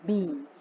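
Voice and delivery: ordinary, unexaggerated बी; plain unstretched EE. Shown as a demonstration. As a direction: say बी without dragging the vowel. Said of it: "ज़्यादा खींच नहीं रहे हैं".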